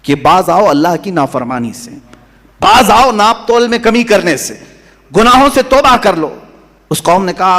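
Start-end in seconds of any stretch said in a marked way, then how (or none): 0.1-6.3 prophet's warning. Retold or imitated. Prophet warns his people to stop sinning, urgent warning. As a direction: build from measured to an insistent exhortation. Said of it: "اس قوم کو جب ڈرایا تھا".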